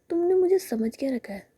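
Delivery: high-pitched indignant question; slightly angry. A narrator's reading. Sami challenges Ritika's opinion of her, mildly angry. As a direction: pitch it up, a touch offended. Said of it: "तो Sami को थोड़ा गुस्सा आता है".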